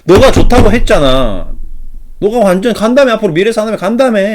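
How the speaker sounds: loud, high-pitched mock protest; acted angry accusation. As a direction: throw the blame back, hammed-up and loud. Acted investor quarrels with adviser.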